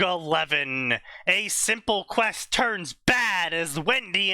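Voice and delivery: dramatic trailer-style blurb read; reading a story blurb. Acted. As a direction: announce it like a book blurb. Reads out a fanfic blurb.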